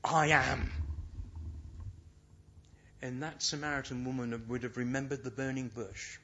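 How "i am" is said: loud, emphatic proclamation; capital letters. Acted. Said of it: "simply says in capital letters".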